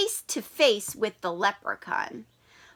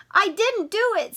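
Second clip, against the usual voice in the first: Sydney protesting; 8 semitones higher than usual. Acted. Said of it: "Sydney said".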